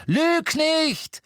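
high, loud angry shout; sharp outburst, pitched right up; hurled angry retort. A narrator's reading. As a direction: fling the accusation out hard. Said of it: "schleuderte ihr Ron entgegen".

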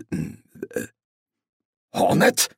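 urgent whisper of the name; hissed. Acted. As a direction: hiss it sharply under the breath. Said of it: "zischte er".

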